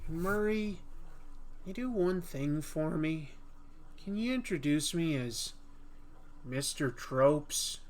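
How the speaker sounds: sly villain asking a favour, slowed on the name; Joker impression.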